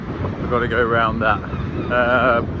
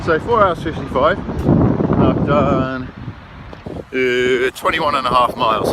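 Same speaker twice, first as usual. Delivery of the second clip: loud, raised voice outdoors; shouting over wind; 5 dB louder, slower than usual. Real, not acted. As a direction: project loudly into the wind. Still outdoors in strong wind.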